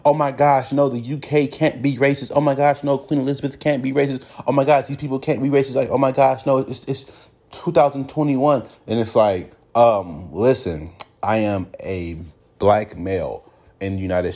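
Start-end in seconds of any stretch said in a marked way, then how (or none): 0.0-8.7 mock shock. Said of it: "saying they were shocked".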